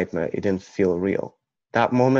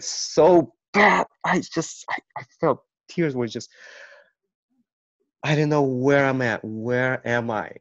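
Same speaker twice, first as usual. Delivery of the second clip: choked-up higher voice, close to tears; fighting back tears while reliving it; voice breaking; 5 semitones higher than usual. Real, not acted. Telling of crying on the bus, voice breaking.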